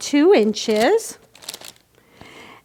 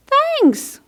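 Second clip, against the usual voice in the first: bear's thanks; 13 semitones higher than usual. Acted.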